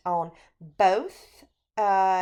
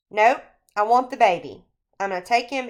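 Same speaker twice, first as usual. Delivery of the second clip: mock insistence; 3 semitones higher, 7 dB louder, faster than usual. Husband insists on baby.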